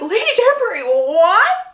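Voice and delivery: loud, high-pitched shocked protest; acted shock, loud and high; taken aback. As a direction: exclaim it, scandalized, jumping up in pitch. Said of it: "Hyacinth is taken aback".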